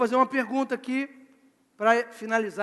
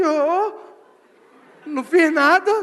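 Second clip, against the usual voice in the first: loud, raised, mock-offended protest; high, loud appeal to the referee; footballer protesting innocence; 4 semitones higher, 8 dB louder, slower than usual. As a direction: play the fouling player claiming innocence. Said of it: "ele faz assim".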